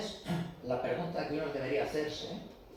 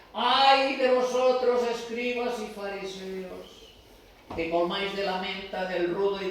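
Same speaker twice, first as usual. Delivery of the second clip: solemn woe; 3 semitones higher, 5 dB louder than usual. Retold or imitated. Preacher voicing Jesus condemning the Pharisees, slow and loud. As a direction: pronounce the curse slowly, word by word.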